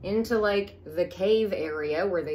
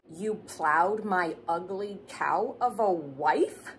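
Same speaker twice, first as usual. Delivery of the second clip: incredulous paraphrase; slower than usual. Retold or imitated. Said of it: "did he just say".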